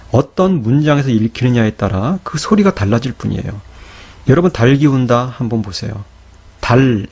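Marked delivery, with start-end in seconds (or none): 6.6-7.1 달 ending in a clear l; sound as spoken. Shown as a demonstration. Teacher showing how the written word sounds, 달 with final l. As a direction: say 달 closing on l. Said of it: "이렇게 발음되죠".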